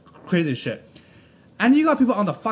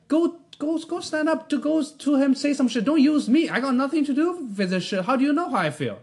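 heated rant; 6 semitones higher than usual. Real, not acted.

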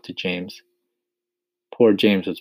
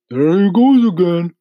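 high, loud protest; earthworm crying out; 12 semitones higher, 11 dB louder than usual. A narrator's reading. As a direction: cry out in exasperation as an earthworm. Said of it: "the earthworm cried".

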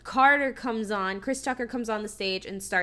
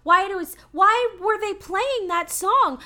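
higher and louder, asking in utter disbelief; why was he even there, pitched up high; baffled disbelief; 9 semitones higher, 5 dB louder than usual. Real, not acted. To his podcast co-hosts, about the random scene, in baffled disbelief.

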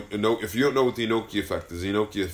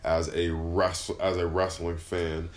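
mock solemn; 4 semitones lower, 4 dB quieter than usual.

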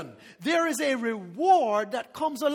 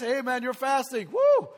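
mock cheer. People praising the faster.

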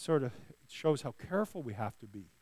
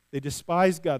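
usual speaking voice

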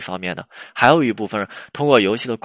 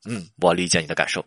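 canned understanding; 4 semitones lower than usual. Acted. Boyfriend's canned reply, acted.

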